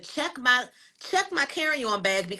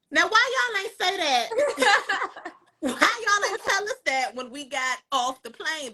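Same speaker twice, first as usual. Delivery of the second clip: high, laughing complaint; laughing disbelief; 7 semitones higher than usual. Real, not acted. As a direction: laugh at how absurd it was.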